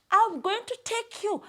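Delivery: high-pitched hare voice; lightly acted hare to the king; eager hare. A narrator's reading. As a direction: offer helpfully in a small high voice. Hare offers to lead lion.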